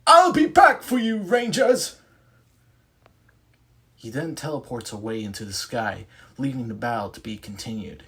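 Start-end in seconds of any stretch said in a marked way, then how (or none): 0.1-2.0 put-on British accent villain. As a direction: boom it out as a British-accented medieval monster. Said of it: "speaks in a British accent".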